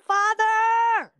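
high, loud desperate cry; shouted cry to God. Retold or imitated. Wife crying out to God while being choked, high shout. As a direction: cry out to the Father with everything. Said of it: "I shouted".

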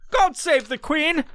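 slow, high put-on British voice; hammed-up slow British salute; mock British accent. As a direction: toast the Queen like a pompous Brit. Mocking the British crown.

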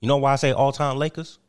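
lightly voiced proud ex-player; Kwame Brown. Kwame Brown explaining all-time Lakers to Steve. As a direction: build the point. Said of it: "I present to you Mister Kwame Brown".

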